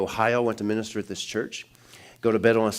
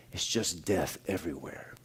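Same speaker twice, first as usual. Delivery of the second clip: much softer, hushed and grave; hushed echo of the words; 4 semitones lower, 10 dB quieter than usual. Retold or imitated. Pastor repeating the dream words to congregation, hushed. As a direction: let it sink in quietly. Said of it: "it really got me thinking".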